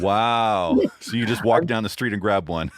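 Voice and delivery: amused wow, laughing through the words. Real, not acted. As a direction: laugh while you joke. Joking about sold-out gear.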